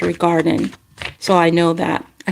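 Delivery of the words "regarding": slipping into a country-like accent; unplanned country accent. Real, not acted. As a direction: let an odd country accent slip out. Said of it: "I sound like I had some type of accent".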